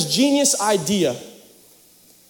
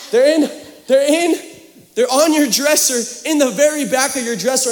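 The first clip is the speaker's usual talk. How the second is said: mock Romanian mom accent; 5 semitones higher, 3 dB louder than usual. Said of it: "Her accent changed too".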